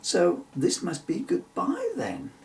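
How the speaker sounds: rueful laugh through the words. Acted. Emily saying goodbye to Bill, rueful laugh. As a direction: sad little laugh. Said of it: "she answered ruefully".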